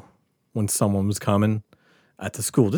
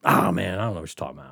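mock innocent denial; 7 semitones lower, 6 dB quieter, much faster than usual. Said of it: "And I'm like".

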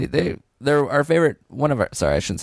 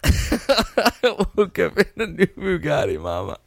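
laughing through a higher wail to Mama; breaking up while voicing the soldier; mock dying Southerner; 5 semitones higher, slower than usual. Co-host laughing through his own Southerner-at-war bit. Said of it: "talking like a Southerner dying at war".

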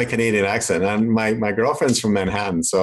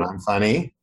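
same rote delivery each time, slight lift at the end; understated mock slogan on a loop; repeated marketing message; 2 semitones lower, slower than usual. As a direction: recite it mechanically, with pauses between. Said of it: "I gotta repeat it".

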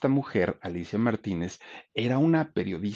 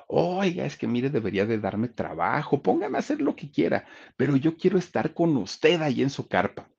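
súplica; 5 semitones higher than usual. Retold or imitated. Carmelita begging producer for work.

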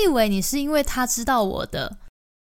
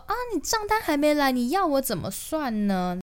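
imitating the landlord; 5 semitones higher than usual. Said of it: "他就跟我说".

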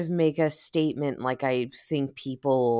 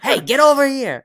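much higher, louder call; mock call out; 12 semitones higher, 9 dB louder than usual. Imitating a New Yorker, loud call out. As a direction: call across the street.

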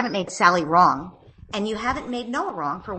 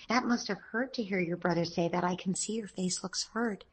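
tender comforting. Shown as a demonstration. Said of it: "taking her into my arms and say".

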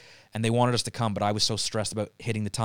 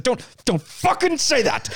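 high, slow, louder mock fury; retold seething warning; angry; 13 semitones higher, 4 dB louder, slower than usual. Retold furious reply to mom.

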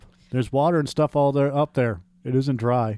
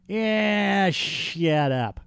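high squeaky mock voice; cartoonish agreement; silly high voice; 7 semitones higher, 3 dB louder, much slower than usual. Mock voice after whisper.

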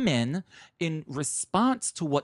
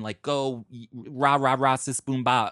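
mock cheerleader; 3 semitones lower, 4 dB louder than usual. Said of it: "very empowered woman".

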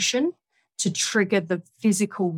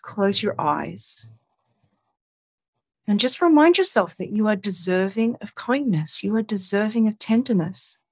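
guided meditation. Acted. Guides self-kindness, eyes closed.

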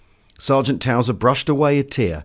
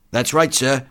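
mildly raised soldier's voice; enlisted man agreeing; 3 semitones higher, slower than usual. Acted. The other enlisted man backing his mate, mildly raised voice. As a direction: agree readily, lightly in character.

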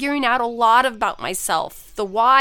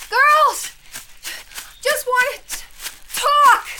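put-on loud, higher call after the girls; 12 semitones higher, 3 dB louder, slower than usual. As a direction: yell after them while running. Mother chasing daughters.

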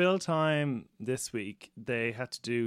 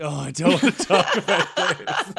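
laughing protest; 5 semitones higher, 9 dB louder than usual. Retold or imitated. Parent's dinner question, mocked reply.

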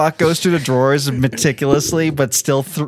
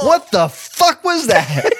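startled; 10 semitones higher, much slower than usual. Retold or imitated. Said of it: "It's like".

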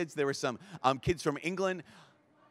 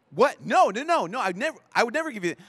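high, loud, startled protest; shocked denial; 7 semitones higher, 6 dB louder than usual. Retold or imitated. A teacher denying he flipped off a child, shocked and loud. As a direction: blurt it out, caught off guard. Teacher accused of rude gesture.

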